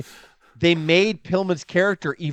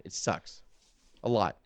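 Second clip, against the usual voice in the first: "It sucks" breathed out, far softer and unvoiced; sad whisper; 7 semitones lower, 10 dB quieter than usual. Real, not acted. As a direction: let "It sucks" fade into a whisper. Grieving dead wrestlers.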